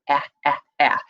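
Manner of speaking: "eh, eh, eh" as a clipped short vowel sound, repeated. Shown as a demonstration. Teacher modeling the vowel for kids: isolated sound. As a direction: tap out the short e sound three times. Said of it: "I hear".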